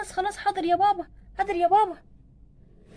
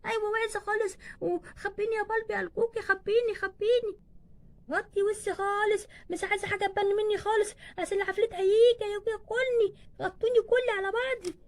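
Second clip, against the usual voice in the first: put-on childish, whimpering plea; scared little child. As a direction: beg to be hidden from the ghost. Child fears ghost, begs for cover. (طفلة مرعوبة بتترجى)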